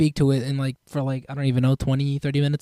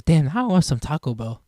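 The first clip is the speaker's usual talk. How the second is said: voice crack; 2 semitones lower than usual. Real, not acted. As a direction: voice cracking on a word. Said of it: "I just voice cracked".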